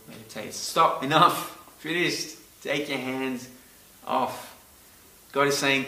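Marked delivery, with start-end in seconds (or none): 0.5-4.5 forceful command. Shown as a demonstration. Preacher voicing God's commands, forceful. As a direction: bark the stop like an order. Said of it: "can be translated to mean stop".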